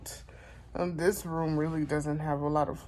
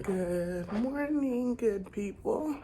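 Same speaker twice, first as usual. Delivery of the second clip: slow sleepy greeting; 3 semitones higher, much slower than usual. Real, not acted. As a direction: ease into a sleepy hello. Morning greeting to viewers.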